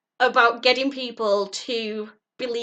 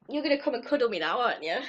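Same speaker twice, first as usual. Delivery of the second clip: talking to the dog; 4 dB quieter, much faster than usual. Real, not acted. Talking fondly to her dog, soft pet talk. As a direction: coo at the dog.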